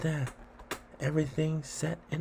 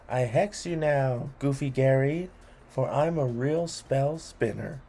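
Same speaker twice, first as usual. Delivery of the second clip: loud, grand spell-casting proclamation; casting a hex; 4 dB louder than usual. Acted. Child hexing boring Gary, a loud mock spell. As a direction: declaim the curse like a mock sorcerer.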